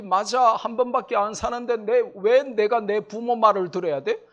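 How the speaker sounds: mock the young people shouting their grievances; imitating defiant youth. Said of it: "하면서 욜로를 외칩니다". (불평하는 청년 흉내)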